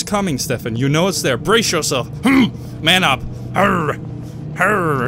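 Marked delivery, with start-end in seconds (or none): 3.5-5.1 low grunted "arr"; mock manly growl. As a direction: psych yourself up with a manly growl. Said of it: "So manly".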